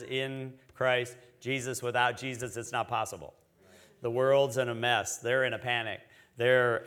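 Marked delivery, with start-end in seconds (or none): 0.0-1.8 "In" set apart and held, slow phrase; stress on "In". Shown as a demonstration. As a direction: slowly point out the word "In". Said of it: "Notice it says".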